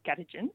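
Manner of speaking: "Gadijin" with emphasis on "Ga"; first-syllable stress. Shown as a demonstration. Linguist demonstrating the second Noongar word, "Gadijin" stressed on "Ga". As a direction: put the weight at the start of "Gadijin". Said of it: "again, with the emphasis on the first syllable".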